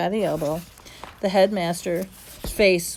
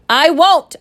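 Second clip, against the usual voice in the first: choked out; 8 semitones higher, 11 dB louder than usual. Acted. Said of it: "Omri choked out".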